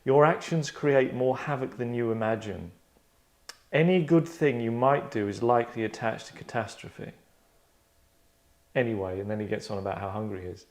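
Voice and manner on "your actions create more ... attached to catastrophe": villain line reading. Acted. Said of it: "quite cool line".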